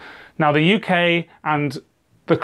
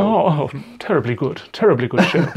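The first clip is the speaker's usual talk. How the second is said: lightly put-on posh English accent; a brief mock-posh English turn. Shown as a demonstration. Demonstrating for the co-host the accent they don't all have, posh English. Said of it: "do a posh English accent".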